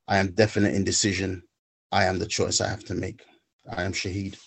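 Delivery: measured, rhythmic poetry recitation with a pause between lines; spoken word poem. Acted. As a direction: deliver each "I am" line as a spoken word piece.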